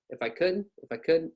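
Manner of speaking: "If I could" run together as one word; linked words. Shown as a demonstration. Teacher showing words that come together, linked. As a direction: glide through "If I could" without gaps. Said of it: "words that come together".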